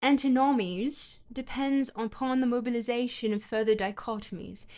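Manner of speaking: reading in a put-on British accent; deliberate, put-on British accent. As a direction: read academic prose as a mock Brit. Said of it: "does the British accent come from the face".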